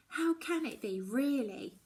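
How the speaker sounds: HOW lifted high, then falling to really; a worried girl pressing the question on herself; pleading question. A narrator's reading.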